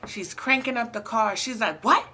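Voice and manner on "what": shrill high yell, much higher and louder; screaming into the phone. Retold or imitated. Coworker hearing bad news on the phone, screaming. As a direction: shriek it in disbelief. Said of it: "Screaming in the phone".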